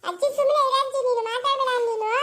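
put-on high child voice talking back; cheeky child. Little girl tells grandma to hush, high cheeky voice. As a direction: sass grandma like a small kid.

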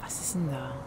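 soft unvoiced whisper. Real, not acted. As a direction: whisper as if sneaking. Creeping through dark place.

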